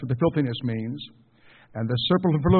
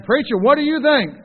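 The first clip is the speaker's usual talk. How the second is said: pleading family member; 10 semitones higher, 5 dB louder than usual. Retold or imitated. Family member demanding preacher's opinion.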